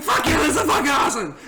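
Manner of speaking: fast, high-pitched mock elation; retold excitement. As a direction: gush like a thrilled buddy. Retold friend thrilled by the news.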